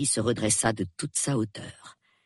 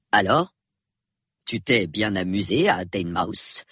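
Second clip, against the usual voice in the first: low-pitched, mildly forced cheer; false cheer; 5 semitones lower than usual. A narrator's reading. Husband asking about Teignmouth, falsely cheerful. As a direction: ask with a touch of put-on jollity. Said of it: "poursuivit-il avec le même faux entrain".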